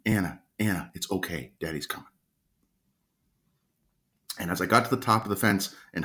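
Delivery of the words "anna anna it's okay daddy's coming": retold call, said softly. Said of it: "I kept calling her name".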